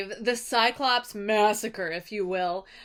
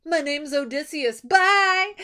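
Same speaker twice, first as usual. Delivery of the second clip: mild mock yell; 4 semitones higher, 4 dB louder than usual. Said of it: "He yells back".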